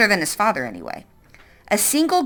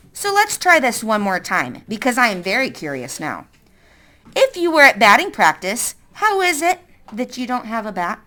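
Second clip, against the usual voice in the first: a hint of a stern woman; lightly voiced suspicious woman. Woman threatening.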